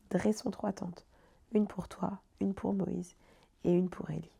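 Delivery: measured scripture reading; story-like reading from the Gospel; Bible reading. Acted. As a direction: read the passage aloud, pausing between phrases. Reads a Bible passage aloud.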